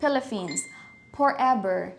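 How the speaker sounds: Philippines, Forever, Fifty with F turned into P; Filipino accent. Shown as a demonstration. Teacher showing an obvious Pinoy speaker, Filipino accent. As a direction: Filipino accent swapping P and F, as in porever. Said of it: "halatang Pinoy ang nagsasalita".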